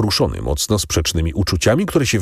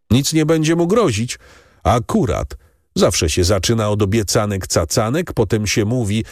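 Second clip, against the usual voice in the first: higher, scornful mocking of empty promises; bitter sarcasm; 5 semitones higher than usual. Sick wife scorning the priest's promises, bitterly sarcastic. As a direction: sneer at every promise.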